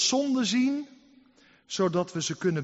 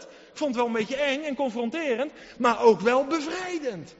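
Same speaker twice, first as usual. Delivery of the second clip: excited confession; 3 semitones higher, 4 dB louder than usual. Retold or imitated. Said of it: "En dan zeg je tegen je man".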